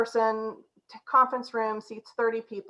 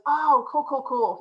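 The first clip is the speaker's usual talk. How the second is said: hipster cool; 4 semitones higher, 4 dB louder, slower than usual. Retold or imitated. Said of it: "very curious and very hipsterish".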